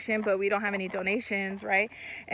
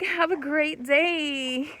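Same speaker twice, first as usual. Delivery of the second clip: customer service voice; 3 semitones higher, much slower than usual. Retold or imitated. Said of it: "I do fake my customer service voice".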